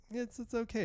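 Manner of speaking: high, soft patronising doctor voice; mock soothing doctor. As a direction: pat the patient on the head with your voice. Mocking condescending doctor.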